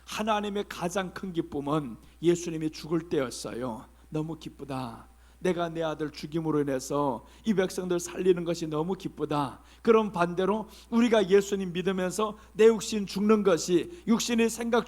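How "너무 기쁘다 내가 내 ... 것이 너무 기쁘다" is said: quiet tender joy. Acted. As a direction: savor it softly as God. God's quiet joy voiced. (낮고 부드럽게 기뻐하는 하나님)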